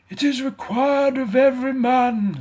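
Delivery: high, loud booming ghost. Acted. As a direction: demand an answer from beyond. Ghost pronouncing doom.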